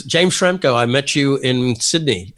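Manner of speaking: lightly imitated Australian accent; mild put-on Australian accent. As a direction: introduce yourself with a touch of Australian. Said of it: "your Australian accent's spot on too".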